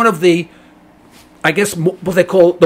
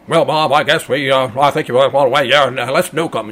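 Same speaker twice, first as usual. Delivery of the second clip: dumb caller; 7 semitones lower than usual. Retold or imitated. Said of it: "guess how we start thinking".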